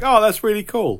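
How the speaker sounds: high-pitched re-enacted delight; retold delight. Film fan reliving a cameo reveal, delighted.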